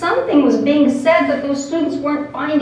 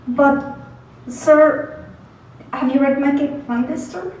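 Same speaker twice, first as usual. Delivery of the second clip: a hint of a higher, hopeful student; hopeful student Beto; 3 semitones higher than usual. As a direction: ask hopefully as a young student. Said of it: "a student called Beto".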